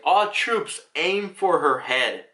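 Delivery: lightly acted officer's command, rising then drawn out; a hint of a commander addressing troops; mock commanding order. Officer giving an order in retelling.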